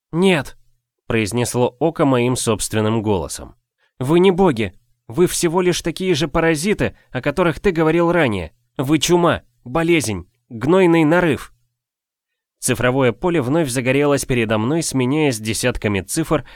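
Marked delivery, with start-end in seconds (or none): 0.1-11.5 defiant rebuke. Acted. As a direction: spit out the contempt from on high. The Eye defiantly rebukes the gods. (громкий высокий обличительный тон)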